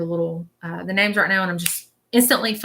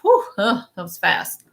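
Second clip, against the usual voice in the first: amazed exclamation; slower than usual. Retold or imitated. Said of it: "he keeps saying that".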